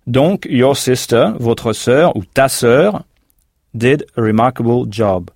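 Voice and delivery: sentence said slowly in chunks; slow breakdown. Shown as a demonstration. Teacher walks learners through the sentence. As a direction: take it apart slowly for learners. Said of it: "teacher breaks the sentence down".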